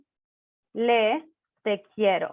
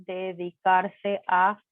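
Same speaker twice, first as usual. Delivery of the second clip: slow model; slower than usual. Shown as a demonstration. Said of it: "teacher repeats verb slowly".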